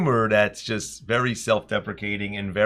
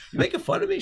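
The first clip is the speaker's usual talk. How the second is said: mock outrage; faster than usual. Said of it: "I'm like".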